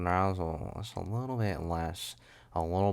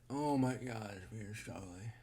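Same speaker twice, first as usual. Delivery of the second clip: hushed dismay; 2 semitones higher, 10 dB quieter than usual. Real, not acted. Host lamenting a struggling show, hushed dismay. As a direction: let it shrink to almost nothing.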